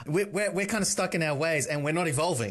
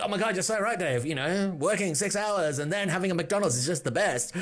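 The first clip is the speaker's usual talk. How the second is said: mock friend comment. Friends' comments voiced mockingly.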